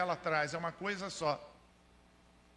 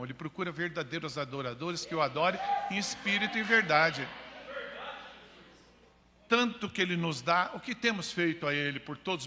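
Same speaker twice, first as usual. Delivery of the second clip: crescer até proclamar forte; pregação enfática; 4 dB louder than usual. Real, not acted. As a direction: exortar a igreja, ganhando força no fim. (pregação exaltada, em crescendo)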